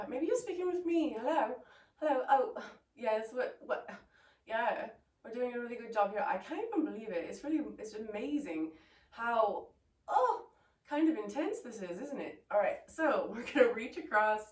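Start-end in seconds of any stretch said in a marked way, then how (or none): 0.1-10.4 put-on British accent. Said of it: "British accent whenever I talk on the phone". 10.9-12.4 lightly put-on British remark; British accent. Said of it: "British accent whenever I talk on the phone".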